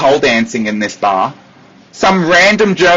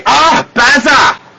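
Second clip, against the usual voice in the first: greeting; 9 semitones higher, slower than usual. Acted. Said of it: "greeting nickname".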